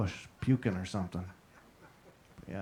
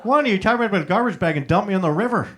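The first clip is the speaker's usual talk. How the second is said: mock plea; 6 semitones higher, 5 dB louder, faster than usual. Mock plea to bullying brother.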